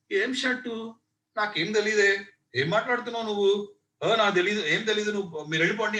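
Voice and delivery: put-on a touch of a sneering gang kid; bully playing dumb. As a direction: brush them off like a smug bully. Bully denies taking the shirt.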